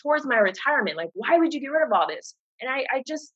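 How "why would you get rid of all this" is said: imitating doubters. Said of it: "people were saying".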